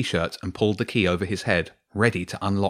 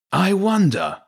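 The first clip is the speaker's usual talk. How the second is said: high, louder wolf villain calling out; Garor Ulf; 12 semitones higher, 5 dB louder, slower than usual. A narrator's reading. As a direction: call out mockingly as a menacing wolf. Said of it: "the voice of Garor Ulf called out".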